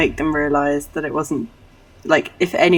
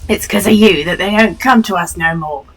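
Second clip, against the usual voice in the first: put-on loud, accusing child character; accusing kid; 3 semitones higher, 6 dB louder than usual. Kid blaming a stranger for killed trains, loud and accusing. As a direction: point the blame in a kid's voice.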